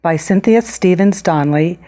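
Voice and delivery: measured storybook reading with clear pauses; picture-book read-aloud. Acted. Author reading her book to children, storybook read-aloud. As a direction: read to young children, stressing key words.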